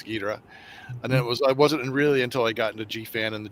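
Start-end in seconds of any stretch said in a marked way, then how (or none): 0.0-0.4 Ghidorah said as GHEE-duh-ruh; English pronunciation. Shown as a demonstration. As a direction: stress the first syllable of Ghidorah. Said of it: "all the English translations".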